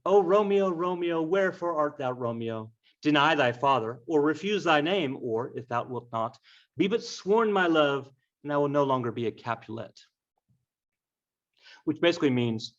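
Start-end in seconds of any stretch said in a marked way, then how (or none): 0.0-10.0 lightly played Juliet. Juliet on her balcony, lightly played longing. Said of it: "very famously, she says".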